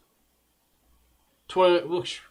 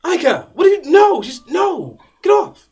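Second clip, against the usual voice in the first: high panicked shout; frantic shouting; 12 semitones higher, 9 dB louder than usual. Acted. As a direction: scream at the beast to stop. Player's character attacked by owlbear.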